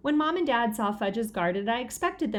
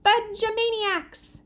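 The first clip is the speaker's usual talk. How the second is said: excited; 12 semitones higher, slower than usual. A narrator's reading. Pete joking.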